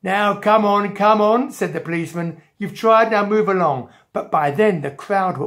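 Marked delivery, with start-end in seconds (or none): 0.0-1.5 loud, bossy bobby voice; impatient policeman. Acted. Policeman after Jack's failed throw, impatient. Policeman moving Jack along. 2.6-3.9 policeman. Acted. Policeman to a little boy in his way, officious.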